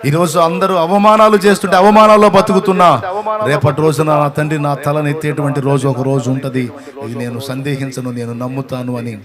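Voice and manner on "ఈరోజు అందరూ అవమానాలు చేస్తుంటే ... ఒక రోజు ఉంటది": loud, rising sermon climax; loud declaration of faith from the pulpit; full-force preaching. Acted.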